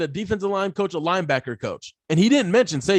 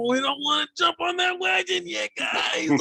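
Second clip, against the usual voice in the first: put-on Texas Southern accent; 13 semitones higher than usual. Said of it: "bringing my little Texas Southern, uh, accent going on here".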